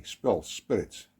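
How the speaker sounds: ordinary delivery, nothing marked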